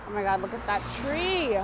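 suddenly amazed by a tree; surprised. Real, not acted. Exclaims at a tree.

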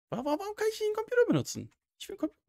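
high fast stuttering panic; panicked stammer. Real, not acted. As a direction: stammer it out in fright.

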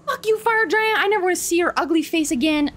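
high, fast mocking jeer at the beaten boss; gloating taunt. Real, not acted. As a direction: rub it in his face.

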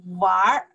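玩儿 ending in a soft r sound. Shown as a demonstration. Teacher models 玩儿 in Mandarin, soft r-coloured ending. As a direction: let 玩儿 round off into an r.

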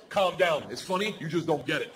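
put-on quietly unbothered child; calm little know-it-all; cool dismissive kid. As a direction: brush off a ranting parent, voice settling down. Daughter coolly answering dad's rant.

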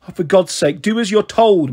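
mum shouting. Acted. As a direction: snap at the child to obey. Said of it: "Mum shouted".

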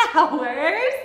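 high, loud gasp into an acted giggle; giggly. A narrator's reading. Zebra finding flowers to count, acted giggly cry. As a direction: burst out with delighted storybook giggliness. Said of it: "giggled Zebra".

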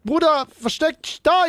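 urgent shouting, high and loud; being chased. Pretend. Chased by the tax office.

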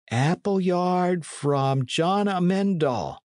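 high, slow reading of "Appleyard from John Amendal"; reading slowly. Acted. Shelton reads the arrow.

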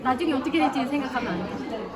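usual speaking voice

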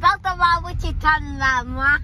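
mock-indignant ratchet retort; ratchet talk. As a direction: open loud with put-on sass. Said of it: "stop talking like that".

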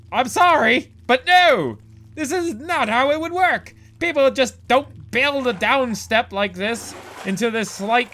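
exasperated rant, pitch climbing; fed-up rant about bad architecture. Real, not acted. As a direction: rant in disbelief at the level design. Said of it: "Okay, I'm done ranting".

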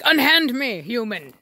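a hint of mock-grand outrage for the dog; indignant dog. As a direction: play an affronted dog demanding release. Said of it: "he's like".

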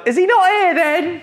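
whiny wife voice. Retold or imitated. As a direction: squeak it out as a put-on whiny wife. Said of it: "my whiny wife voice".

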